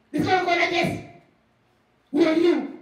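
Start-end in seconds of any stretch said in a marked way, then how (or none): 2.1-2.8 loud, acted demand; curt challenge. Jesus to someone knocking at his door, challenging.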